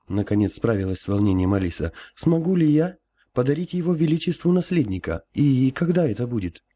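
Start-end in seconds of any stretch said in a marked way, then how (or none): 2.2-6.6 high, trembling nervous question; anxious. Acted. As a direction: ask it with held-back nerves. Empress stammers anxious question.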